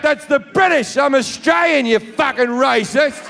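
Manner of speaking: high-pitched acted indignation; indignant retort. Accused passenger correcting the heckler, indignant retort. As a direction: fire back in mock outrage.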